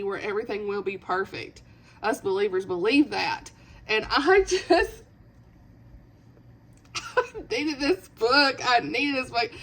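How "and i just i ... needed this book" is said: choked-up, half laughing through tears; tearful gushing. Real, not acted. Book vlogger overwhelmed by the story, tearful. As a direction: voice catching with emotion, words drawn out. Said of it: "through my tears".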